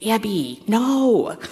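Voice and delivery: lightly imitated Chicago accent, a stern stepdad's warning. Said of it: "in his Chicago accent".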